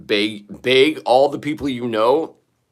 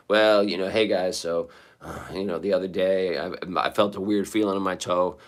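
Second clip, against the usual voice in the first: a touch of mopey, quieter begging; lightly sad, quieter, like a gloomy fundraiser plea; depressive pitch; 3 semitones lower, 4 dB quieter than usual. Pretend. Vlogger mocks his own GoFundMe pitch, gloomy and quiet. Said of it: "depressive, depressive, realistic GoFundMe pitch".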